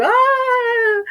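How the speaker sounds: high, drawn-out mock bawling cry; mock wail. Wife retelling her meltdown to an audience, mock wail. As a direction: wail it out, imitating your own crying. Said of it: "chorando que nem uma doida".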